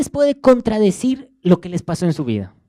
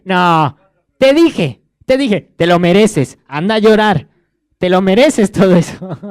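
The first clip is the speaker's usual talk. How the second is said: louder, mock-stern rebuke; an imagined unforgiving Jesus scolding a sinner, loud and stern; harsh scolding; 7 dB louder than usual. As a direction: play a judging Jesus who says you deserve it.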